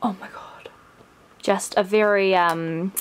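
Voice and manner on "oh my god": breathless gasp. Real, not acted. Overwhelmed by the gift.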